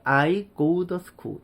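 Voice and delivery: "to" softened to "duh". Shown as a demonstration. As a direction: say "I go duh school", T becoming D. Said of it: "이렇게까지 오는 거예요". ("to"를 "더"로 약하게)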